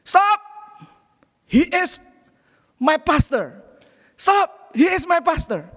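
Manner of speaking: put-on young men yelling to protect their pastor; shouting stop. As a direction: call out to halt the angry driver. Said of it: "itu langsung ngomong begini".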